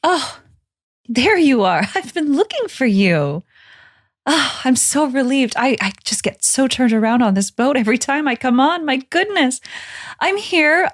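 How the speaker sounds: flustered Lila. Pretend. Player plays flustered Lila.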